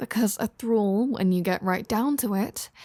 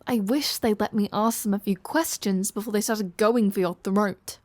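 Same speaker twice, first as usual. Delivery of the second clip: normal talking voice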